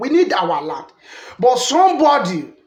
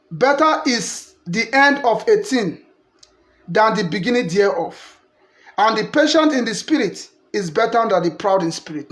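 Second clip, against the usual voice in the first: scripture reading. Shown as a demonstration. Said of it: "verse eight say".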